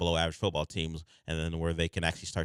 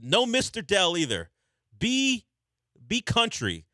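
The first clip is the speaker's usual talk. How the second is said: higher, louder, urging the caller on; high excited coaching; 10 semitones higher, 4 dB louder, slower than usual. Real, not acted. Host coaching a caller to sound more country, excited. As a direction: push him to go full country. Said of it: "host coaching caller's accent".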